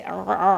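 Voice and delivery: overdone throaty gag; mock retching sound. Shown as a demonstration. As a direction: show the wrong vomiting-like sound. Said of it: "vomiting جیسا sound آئے".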